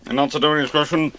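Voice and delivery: usual speaking voice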